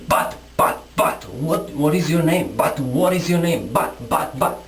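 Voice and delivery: mimicking a baffled listener, stumbling over but; stuttering but, but as if clueless, partly whispered; mock stammering confusion. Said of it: "and I still say".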